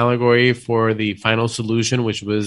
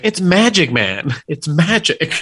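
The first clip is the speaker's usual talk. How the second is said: casual dismissive answer; 5 semitones higher than usual. Retold or imitated. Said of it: "his answer was like".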